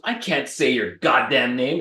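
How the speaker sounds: slow, lightly voiced grumpy old woman; cranky old lady. Old lady slamming the door, slow and grumpy. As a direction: drag it out like a fed-up granny. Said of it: "this little old lady answers the door".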